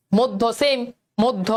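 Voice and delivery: মধ্য said "mod-dho"; doubled d. Shown as a demonstration. Teacher answering for students, মধ্য as "mod-dho". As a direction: hold the d in each মধ্য. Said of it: "এটার উচ্চারণ কি হবে".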